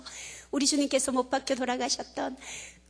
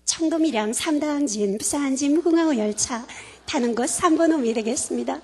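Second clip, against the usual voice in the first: lightly voiced station announcer, formal and even; a hint of the platform PA reading; train announcement impression. Speaker imitating the train station PA for the audience, lightly voiced. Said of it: "어떻게 나오냐면 이렇게 나오죠".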